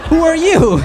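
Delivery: high, loud dopey demand; mock Hulk asking. Hulk turning to Bruce Banner, high and loud. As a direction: squeal the question out.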